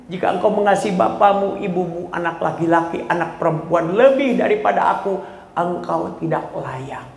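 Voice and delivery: booming voice of the Lord, slowing at the end; voice of God. Retold or imitated. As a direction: proclaim it as God speaking. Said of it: "saya mendengar audible".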